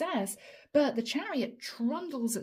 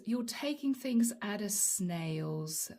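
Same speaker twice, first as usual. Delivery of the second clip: drawn-out words, softly trailing down; snail-slow; 2 semitones lower, 5 dB quieter, much slower than usual. Real, not acted. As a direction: stretch it out at a crawl, softening. Acts out the snail's pace.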